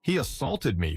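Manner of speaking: high-pitched indignant accusation; restrained narrated yell; mock yell. A narrator's reading. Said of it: "foam cop yells".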